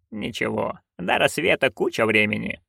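soft, low-key reply; quiet dismissal. A narrator's reading. Witch saying dawn is far off, quietly unconcerned. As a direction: brush it off quietly. Witch reassures grumbling friend.

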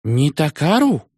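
high, slow puzzled "Не Такару?"; puzzled question. A narrator's reading. The Shah repeating the unfamiliar word, high and puzzled. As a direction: repeat "Не Такару" as a bewildered question, rising in pitch. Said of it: "озадаченно спросил".

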